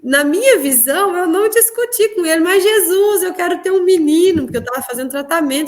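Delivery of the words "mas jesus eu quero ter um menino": higher-pitched, insistent retold plea. Woman arguing with Jesus for a boy, insistent plea. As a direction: plead your case, pitched up.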